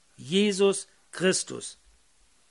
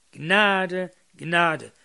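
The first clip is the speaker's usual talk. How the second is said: first Gnade called out louder, second falling; crying out grace; 3 dB louder than usual. Acted. Preacher crying out the keystone's call of grace. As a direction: proclaim it like a cry from the keystone. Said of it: "rief der Schlussstein".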